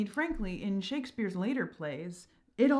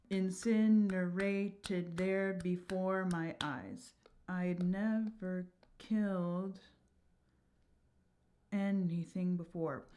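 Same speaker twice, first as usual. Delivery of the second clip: slow verse reading; slower than usual. Shown as a demonstration. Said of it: "missing unstressed syllable".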